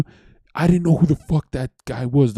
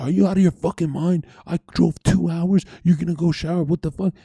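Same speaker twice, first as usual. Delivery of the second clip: higher-pitched mock yell of outrage; retold yelling; 7 semitones higher than usual. Yelling at her over the shower, retold in a high outraged voice. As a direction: re-enact an incredulous outburst, pitched up. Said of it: "started yelling at her".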